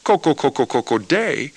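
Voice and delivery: chanting like a clucking hen; hen cackle. Retold or imitated. Teacher voicing the song's hens, a clucking chant. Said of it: "When the chickens cackle".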